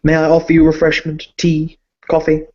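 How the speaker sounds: a hint of a timid bank clerk; nervous servant. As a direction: stammer like a flustered doorman. The servant offers refreshment.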